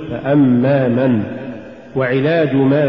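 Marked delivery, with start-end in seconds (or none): 0.1-1.2 slow فأما, then a separate من; separate words. Shown as a demonstration. Teacher repeats the correct form, فأما apart from من. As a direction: give من its own weight after فأما. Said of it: "قل".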